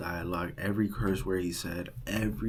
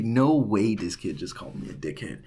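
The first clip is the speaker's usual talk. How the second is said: shocked; 5 dB louder than usual. Real, not acted. Shocked at being insulted.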